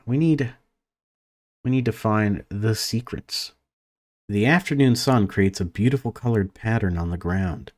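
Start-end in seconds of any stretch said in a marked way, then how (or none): 4.3-7.7 even, measured read-aloud of game text; story narration. A narrator's reading. Gamer reads a conservatory scene to viewers, story narration. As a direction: narrate it evenly, pausing between sentences.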